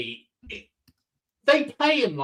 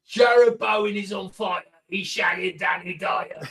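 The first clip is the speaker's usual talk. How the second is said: shouting; 3 semitones higher than usual. Pretend. Imagined Cockney orc song shouting.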